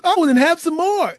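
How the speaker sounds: sweetly proud grandmother asking; a sing-song, delighted granny; cheery grandma voice. Retold or imitated. Grandmother offers more.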